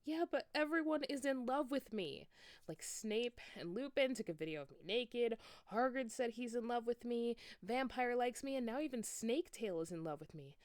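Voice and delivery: high, loud, whiny complaint; angry shout. A narrator's reading. Enoby complaining to Draco about being too pretty, angry. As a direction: rant at him with rising anger. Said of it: "I shouted angrily".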